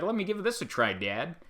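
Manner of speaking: put-on high, reluctant little kid voice; mock picky kid. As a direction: play the fussy child humouring dad. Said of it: "I'm gonna be like".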